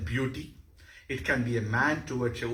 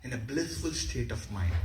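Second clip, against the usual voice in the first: calm, blissful; 3 semitones lower than usual. Shown as a demonstration. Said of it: "the final thing is Shanta".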